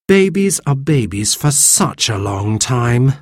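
sighing. Acted. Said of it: "sighed Cyril".

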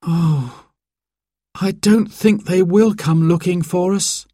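put-on high-pitched, glum boy's voice; miserable sigh. A narrator's reading. Simon doubts anyone will come looking for them, miserable. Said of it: "sighed Simon miserably".

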